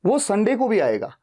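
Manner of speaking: संडे को भी leaned on; stress on संडे को भी. Shown as a demonstration. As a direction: lean on संडे. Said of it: "डे पे focus है".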